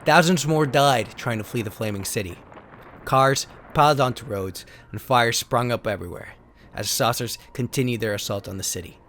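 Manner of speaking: dramatic narrator reading out card backs; steady storyteller read of alien invasion cards; card text reading. Acted. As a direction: read it like an old sci-fi trailer. Reads trading card text aloud.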